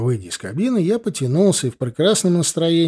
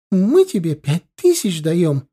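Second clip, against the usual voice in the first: high, slow emphatic squeal; acted young woman's mild shriek; squealed protest; 5 semitones higher, 4 dB louder, slower than usual. A narrator's reading. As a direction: squeal the offer, pitched up and drawn out. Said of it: "взвизгнула молодая".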